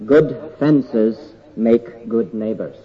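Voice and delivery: slowly quoted English proverb. Shown as a demonstration. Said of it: "In meiner Muttersprache, in Englisch".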